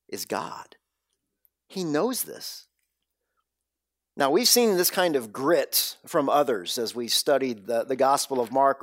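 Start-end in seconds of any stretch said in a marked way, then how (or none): 0.1-2.7 1 hushed reverence. Real, not acted. Climactic hushed statement.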